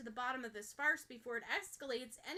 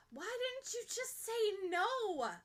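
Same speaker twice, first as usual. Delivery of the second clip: a hushed, breathy whisper of a question; 10 semitones higher, slower than usual. Acted. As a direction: whisper it as if afraid to ask. Ochako asks the hard question.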